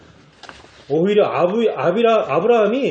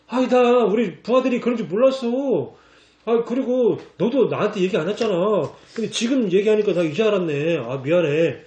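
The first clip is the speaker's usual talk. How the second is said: groveling excuse; 4 semitones higher than usual. Retold or imitated. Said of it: "불신자가 오히려 비굴해 하잖아요".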